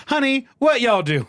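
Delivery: loud, high southern proclamation; exaggerated southern accent. A narrator's reading. Glover catches the pair in the hall, exaggerated southern accent. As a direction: call it out clear in a hammed-up southern accent. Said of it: "proclaimed in a loud, clear voice ... exaggerating his southern accent".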